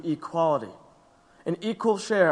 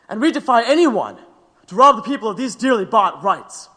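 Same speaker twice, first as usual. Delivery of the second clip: loud defiance; 4 semitones higher, 5 dB louder than usual. Acted. Defendant's defiant speech to court.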